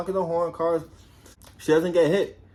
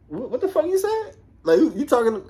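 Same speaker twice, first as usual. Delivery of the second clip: much higher, louder and put-on, half laughing; mock angry comeback; 10 semitones higher, 4 dB louder than usual. Partner snapping back at Love's insults, mock angry. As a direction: fire back like an offended tough guy.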